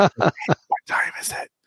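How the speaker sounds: very slow, hushed whisper. Retelling how they ask a voice assistant the time in the morning: imitating own morning whisper. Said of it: "sometimes in the morning I whisper to the".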